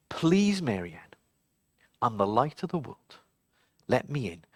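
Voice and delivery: low and soft, gently begging; soft pleading candle. Acted. The candle softly begging Mary Ann to let him in. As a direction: plead quietly at the door.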